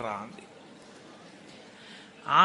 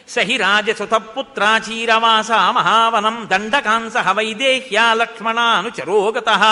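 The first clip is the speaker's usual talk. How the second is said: slow, louder chanted Sanskrit verse; shloka recitation; 5 dB louder than usual. Acted. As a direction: intone the shloka like a pravachanam. (శ్లోక పఠనం, నెమ్మదిగా గట్టిగా)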